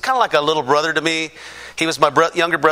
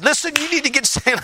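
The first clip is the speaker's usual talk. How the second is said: high-pitched worked-up insistence; mock-frantic demand, pitch jumping up; retold mad outburst; 10 semitones higher than usual. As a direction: act out losing your temper while pleading. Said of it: "Then I get mad".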